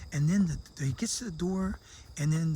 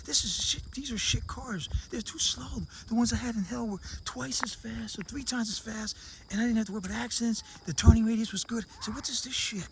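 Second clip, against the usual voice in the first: higher, scornful rant about cheap cars; indignant complaint; 4 semitones higher than usual. Retold or imitated. A man back from hell scoffs at his own supercars, outraged.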